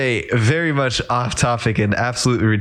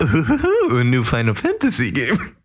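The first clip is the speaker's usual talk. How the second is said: excited gush; slower than usual. Retold or imitated. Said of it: "I'm just like".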